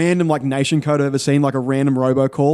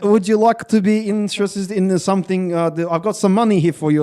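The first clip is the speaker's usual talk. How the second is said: mock Australian scammer; 4 semitones higher than usual. Scam caller impression.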